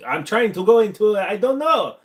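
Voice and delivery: high, exaggerated mock Asian accent. Shown as a demonstration. Admitting it is just noise, in mock Asian accent. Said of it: "do an Asian accent".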